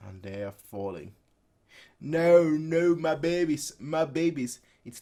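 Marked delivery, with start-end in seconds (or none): 2.0-4.6 mild anguish. Acted. Mother voiced losing her babies.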